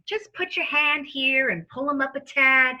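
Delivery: sleazy lawyer with a fake Southern accent. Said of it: "dons a false Southern lawyer accent".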